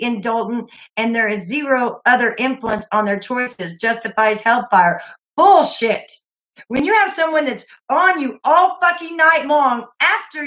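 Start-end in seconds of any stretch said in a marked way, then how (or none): 5.4-10.4 angry outburst. Real, not acted. Streamer erupts at the harassing caller, furious shout.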